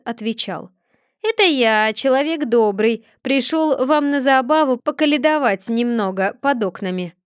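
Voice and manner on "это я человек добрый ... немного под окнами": lightly disguised caroler voice, a bit louder. Acted. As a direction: Chub fakes a stranger's voice. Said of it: "переменив голос". (Чуб слегка изменённым голосом притворяется колядующим)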